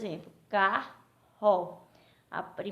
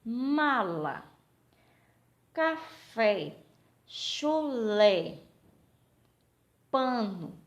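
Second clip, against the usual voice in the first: drawn-out two-beat words; syllable by syllable; 2 semitones higher, 4 dB louder, much slower than usual. Shown as a demonstration. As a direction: dictate each word in two clear syllables, pausing between. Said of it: "São duas sílabas".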